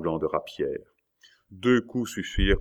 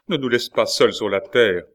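loud, raised plea; father's cry; 4 semitones higher, 6 dB louder than usual. A narrator's reading. Father at the attacker's feet begging his son, loud cry. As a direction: beg aloud, pitched up. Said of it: "cria Mercandon".

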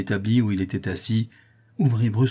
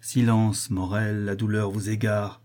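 mildly sorrowful hushing; understated sadness; sad; slower than usual. Acted. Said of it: "lui dit tristement Rodolphe".

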